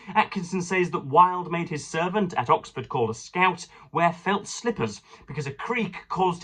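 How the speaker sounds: lightly lifted reading-aloud tone. Acted. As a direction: read the passage out to the listeners. Reads a biography aloud.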